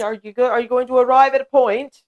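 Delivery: mock-polite sarcastic question. Demonstrating a comeback to an insult, sarcastic. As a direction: needle them with exaggerated patience. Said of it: "I could get even more sarcastic".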